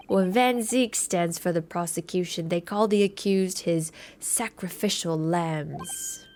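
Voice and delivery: lightly voiced ominous client, slowing at the end; a hint of put-on accent, slowing for menace; McGilded. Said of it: "I keep changing his accent".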